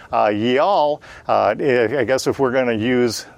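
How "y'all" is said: "y'all" said as one drawled Southern syllable; "y'all" in a Southern drawl, like "yee-all". Shown as a demonstration. Teacher showing the class the Southern plural, Southern "y'all". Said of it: "our Southern dialect".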